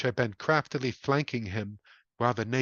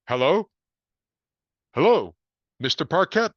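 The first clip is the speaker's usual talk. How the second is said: louder, distant voice down the receiver; calling on phone; 4 semitones higher, 7 dB louder than usual. A narrator's reading. Sergeant calling for Harold through the dropped phone, louder. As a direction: cop calling into a dead line.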